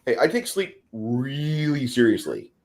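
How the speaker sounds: ordinary talk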